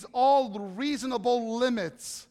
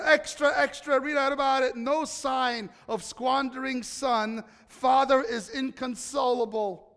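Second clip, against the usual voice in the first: shouting newsboy calling headlines; rapid old-time reporter; 3 semitones higher, 4 dB louder than usual. Pretend. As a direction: hawk the paper on the corner. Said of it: "newspaper in Jerusalem".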